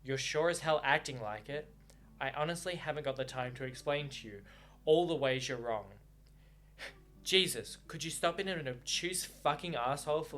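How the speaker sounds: reading the novel aloud with feeling; audiobook-style reading with lightly voiced lovers; story narration. A narrator's reading. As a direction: read the book's lovers' quarrel to the listeners.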